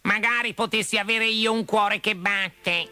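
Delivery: vocina acuta e malinconica; omino di latta triste. A narrator's reading. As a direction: esprimi un triste desiderio in tono alto. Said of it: "disse tristemente l'omino di latta". (lamento malinconico e acuto)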